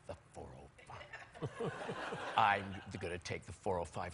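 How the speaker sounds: a flat, weighty chauffeur answer; imitating the driver. Husband imitating the driver answering about the route. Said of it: "And he says".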